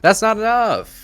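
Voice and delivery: high, loud cry of alarm; alarmed exclamation. Real, not acted. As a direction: blurt it out, shocked. GM reacts to failed save.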